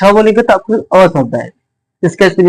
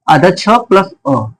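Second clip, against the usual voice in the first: slow breakdown; much slower than usual. Shown as a demonstration. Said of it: "breaks letter into parts".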